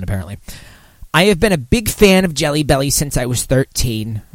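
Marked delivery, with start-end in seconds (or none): 1.1-4.2 Woody Allen voice. Retold or imitated. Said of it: "making her sound like Woody Allen".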